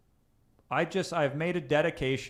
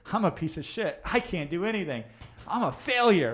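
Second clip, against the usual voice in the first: upbeat contradicting tone; 5 semitones higher than usual. Shown as a demonstration. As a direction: proclaim the insults like good news, building. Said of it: "the emotional tonality of that will feel, will contradict the language".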